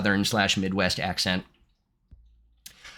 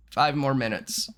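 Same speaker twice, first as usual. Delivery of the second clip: slow, drawn-out drowsy plea; higher, slow, reluctant whine; sleepy plea; 4 semitones higher than usual. Acted. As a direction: play a sleeper begging to stay in bed. Acting the sleeper's drowsy reply.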